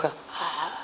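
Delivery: very soft, weak, failing voice barely coming out. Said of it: "이랬어".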